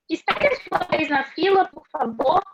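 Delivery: pedido com um toque de ênfase; peça com firmeza gentil; pedido enfático. Shown as a demonstration. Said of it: "Tivemos um pedido". (pedido com entonação de exclamação)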